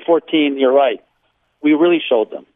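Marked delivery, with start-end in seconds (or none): 1.6-2.5 dry sarcasm, slightly raised pitch; lightly ironic boast; sarcastic. Real, not acted. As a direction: say it with understated mock triumph. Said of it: "I'm being sarcastic".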